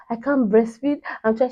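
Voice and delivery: plaintive, half-acted distress; retold tearful complaint. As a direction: imitate a helpless new mother, lightly. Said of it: "I just started crying again".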